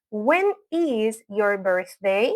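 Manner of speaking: slow, careful teacher's question; slow model pronunciation. Shown as a demonstration. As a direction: say it slowly for learners to repeat. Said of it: "voy a hablar lento".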